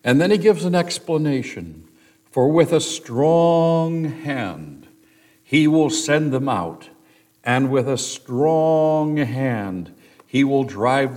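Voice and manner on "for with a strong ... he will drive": "strong hand" stretched slowly and leaned on, a bit louder; stress on strong hand. Shown as a demonstration. Pastor reading God's promise to Moses, slow and emphatic. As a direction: read "with a strong hand" slowly, weighting each word. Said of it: "Did you notice the repetition of the phrase".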